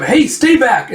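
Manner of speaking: high, urgent shout to attackers; acted alarm, pitched well up; warning shout. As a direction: fend them off with your voice. Surrounded fighter warns attackers off.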